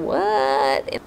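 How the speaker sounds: low, drawn-out baffled "what"; mock bafflement. Reader lost between places, low baffled reaction. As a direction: let the word sag in confusion. Mimics own confusion at geography.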